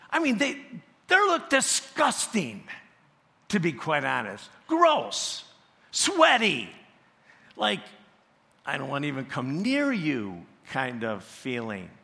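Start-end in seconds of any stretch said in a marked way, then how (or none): 0.1-10.5 high, loud grossed-out exclamations; mock disgust at a sweaty wrestler.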